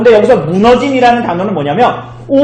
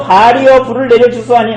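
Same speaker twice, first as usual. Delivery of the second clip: raised, louder imitation of desperate praying; mock-urgent call to a god; urgent plea; 4 semitones higher, 3 dB louder than usual. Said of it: "이 사람들은 막 다급하잖아요".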